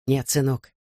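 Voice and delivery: gently refusing father. A narrator's reading. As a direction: turn your son down, low. Father refuses his son.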